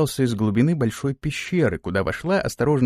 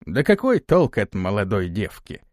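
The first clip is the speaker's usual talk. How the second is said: contemptuous; 4 semitones lower than usual. Acted. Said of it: "презрительно ответил старик".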